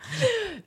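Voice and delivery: quiet high-pitched giggle; trailing airy laugh; soft high laugh. Real, not acted. Laughs after punchline.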